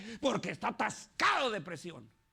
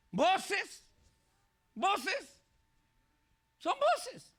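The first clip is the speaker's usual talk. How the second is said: much higher, louder, mock-incredulous squeak; 10 semitones higher, 4 dB louder, much slower than usual. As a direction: squeak it like a silly echo. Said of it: "mocking question voices". (voz aguda y burlona)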